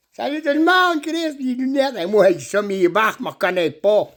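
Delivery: high-pitched farmer character, lightly voiced; farmer Sergio. Farmer greets the crowd about his cows and chickens, hammed-up.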